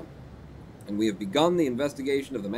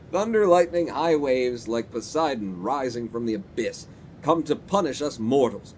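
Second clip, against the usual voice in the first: lightly held Irish brogue, storytelling; a hint of a tipsy Irish porter; drunken Irish accent. Porter describes the storm to police, light Irish accent. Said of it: "need that accent".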